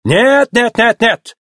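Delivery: high, agitated string of refusals; excitable Italian outrage; indignant. A narrator's reading. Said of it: "возмутился Луиджи".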